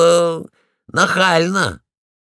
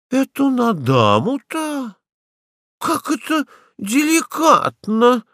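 mock offended lady; 10 semitones higher than usual.

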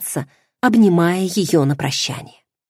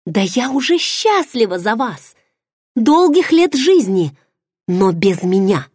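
high mock-congratulating cry; sarcastic; 4 semitones higher than usual. Heroine sarcastically wishes him and his bride long life. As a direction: toast them with venom.

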